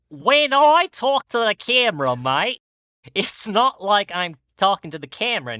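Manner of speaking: a bad Aussie accent with "mate" and "yeah?" tags; put-on Australian host voice, over the top; mock Australian accent. Talking to the camera like a wildlife host, in a bad mock Australian accent. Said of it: "most offensive Australian accent I can".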